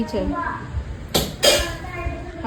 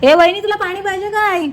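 calling out; 5 semitones higher than usual. Real, not acted. Calling to sister-in-law across the house, higher raised call. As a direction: call out to her from a distance.

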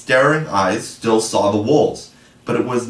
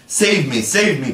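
higher, pleading cry for rescue; crying for help; 5 semitones higher than usual. Acted. Nibs fleeing wolves, begging the boys, higher frightened cry. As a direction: beg to be saved from the wolves. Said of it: "cried Nibs".

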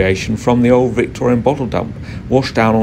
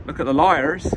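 lightly imitated Dorset quarryman saying "liars" for layers; a mild Dorset burr on "Look at the liars"; old Dorset quarryman's "liars"; Dorset accent. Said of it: "they would say in their Dorset accent".

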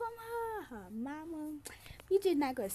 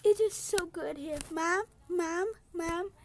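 higher, louder pretend gushing; play-acted happy daughter; 5 semitones higher, 4 dB louder than usual. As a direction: call out to Mom in a raised voice. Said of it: "She like".

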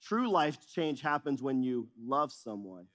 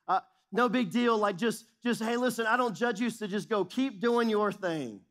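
higher, breezy brush-off; mock casual shrug; 3 semitones higher than usual. Pastor mocking a too-easy Jesus, breezy and higher. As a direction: toss it off like it doesn't matter. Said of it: "It's not what Jesus did".

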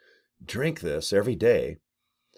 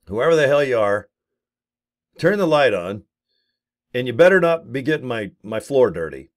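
mock tough scolding. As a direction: boss the ghost around, unafraid. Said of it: "And I go".

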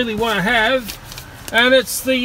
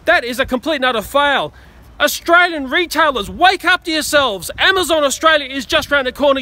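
angry rant; 3 semitones higher than usual. Real, not acted. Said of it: "the man ranting on the roof".

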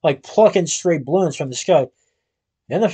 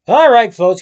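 loud commanding call; shout; 4 semitones higher, 7 dB louder than usual. Acted. Police chief breaking up the flying crowd, shouting. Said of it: "came a shout".

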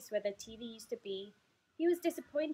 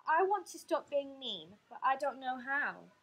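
mildly tearful, higher-pitched plea; 3 semitones higher, 4 dB louder than usual. Acted. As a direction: confess it with a touch of upset. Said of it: "it said tearfully".

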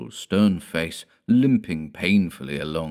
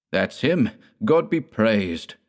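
higher, loud cry of relief; joyful cry; 5 semitones higher, 4 dB louder, slower than usual. Acted. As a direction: call out in relieved joy, slowing on the praise. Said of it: "cried Stenka".

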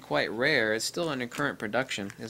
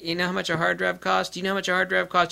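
higher, mock scolding question; 6 semitones higher, faster than usual. Scolding users who lost data over a cheap drive. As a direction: needle them with the question.

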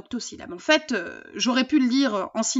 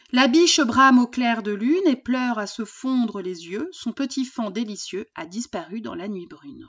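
poem recitation. Acted. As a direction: let each octosyllable breathe. Reads a poem aloud.

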